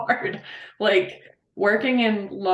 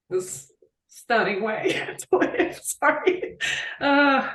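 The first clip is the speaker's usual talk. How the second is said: tearful; 6 semitones higher, slower than usual. Real, not acted. Overcome describing how people live, tearful and apologetic. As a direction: voice giving way to real tears. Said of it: "without some waterworks".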